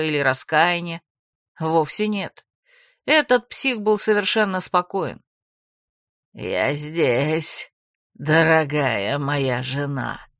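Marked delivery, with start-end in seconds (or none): 6.3-10.3 low, slow creaky villain voice. Acted. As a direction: savour each word like a calm madman. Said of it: "скрипучим голосом сообщил он мне".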